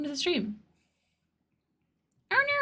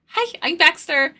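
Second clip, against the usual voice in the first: Baxter accent; 6 semitones higher than usual. Shown as a demonstration. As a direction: drop into the character accent on the spot. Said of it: "It's kind of like this".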